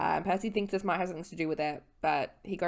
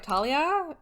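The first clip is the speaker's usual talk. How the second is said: playful Artemis; 4 semitones higher, 3 dB louder than usual. Retold or imitated. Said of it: "Artemis is like".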